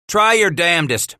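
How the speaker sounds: high, loud defiant taunt; hollered taunt. Acted. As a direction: dare them loudly. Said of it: "Bass hollered".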